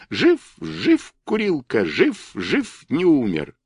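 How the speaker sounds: high, squeaky little chant; thinnest squealing voice. A narrator's reading. Boastful Kurilka sings to the toys, thin high squeal. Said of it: "завизжал самым тонким голосом".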